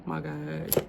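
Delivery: exasperated. Retold or imitated. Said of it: "I used to be like".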